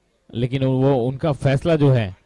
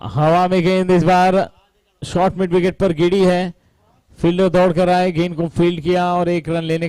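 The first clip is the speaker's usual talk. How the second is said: excited; 5 semitones higher than usual. Real, not acted. Commentator calls a ball in the air.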